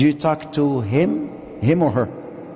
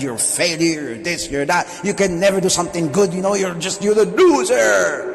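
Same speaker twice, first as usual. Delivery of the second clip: scolding parent. Retold or imitated. Parent berating a failing child, building to a shout. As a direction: pile the blame on the child. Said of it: "give it to them and on their head".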